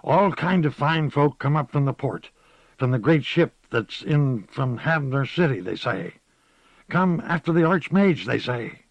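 lightly voiced old gossip; a hint of a sly old woman; old village witch.

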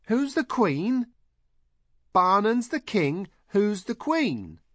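high, loud, slow insistent questioning; drawn-out, high-pitched demand; crying out. A narrator's reading. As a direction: pester them in a very high shout. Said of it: "Heather cried".

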